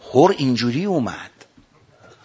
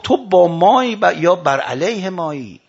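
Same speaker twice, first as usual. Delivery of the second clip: slow, raised, demanding question; retold challenging shout; 3 semitones higher, 5 dB louder, slower than usual. Imam confronting his soldier, a slow shouted challenge. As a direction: throw the question out loudly, then ease off. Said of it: "سرش داد زد".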